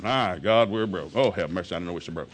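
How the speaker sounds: a hammed-up late-night groan over the bills; fading from mock lament to a defeated murmur; mock despair. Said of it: "It will depress you".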